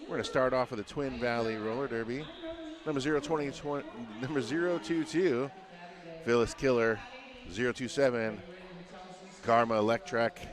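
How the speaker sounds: punchy lineup call, each name hit hard; arena announcer. Acted. Announcer calling the visiting lineup to the crowd, punchy arena call. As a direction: announce every skater like they're walking out.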